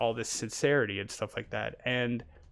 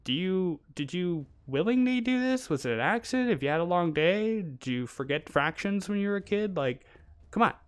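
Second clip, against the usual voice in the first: blunt calling out; 6 semitones higher than usual. Retold or imitated. Imitating a North American scolding a shopper in line. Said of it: "It's okay for you to say".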